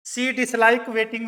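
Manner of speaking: very slow dictation. Shown as a demonstration. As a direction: give each word time for writing. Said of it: "dictating example sentence".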